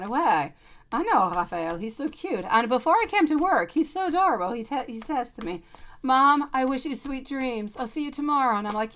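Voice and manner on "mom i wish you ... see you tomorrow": sweet goodnight. Retold or imitated. Son says goodnight.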